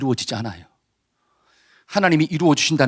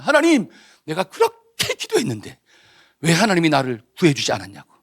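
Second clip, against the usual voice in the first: whiny complaint. Acted. Dead man complaining to God.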